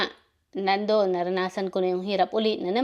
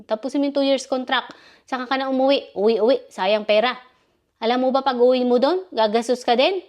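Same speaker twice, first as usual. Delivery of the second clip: mildly imitated scolding boss, louder; angry employer; 3 semitones higher, 3 dB louder than usual. Employer lecturing her about wasting money, mock angry. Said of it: "nagagalit sa akin".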